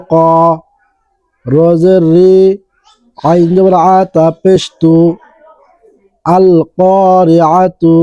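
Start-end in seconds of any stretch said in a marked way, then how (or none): 6.3-8.0 slow, drawn-out Quranic recitation. Shown as a demonstration. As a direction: recite the verse slowly with tajwid. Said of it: "বানান করে সূরা কারিআহ". (ধীর তিলাওয়াত)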